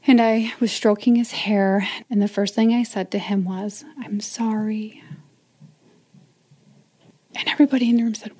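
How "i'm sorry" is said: whispered apology. Retold or imitated. Dying husband, hospital bedside apology.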